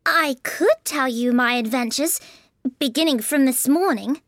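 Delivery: put-on high, tentative girlish voice; a little timid. A narrator's reading. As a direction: offer it shyly as Alice. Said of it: "said Alice a little timidly".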